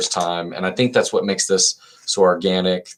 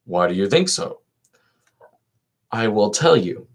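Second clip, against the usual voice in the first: dialogue read aloud; 2 semitones higher than usual. Acted. Reader voicing Crito and Socrates for listeners, lilting read-aloud.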